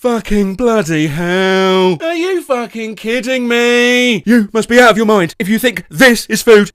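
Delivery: furious chef ranting, building to a loud yell; Gordon Ramsay impression. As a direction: rant like an outraged celebrity chef. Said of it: "Gordon Ramsay just walked into".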